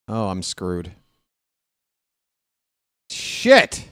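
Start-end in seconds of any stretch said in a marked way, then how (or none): 3.1-3.9 high yelp of dismay. Real, not acted. Bad dice outcome.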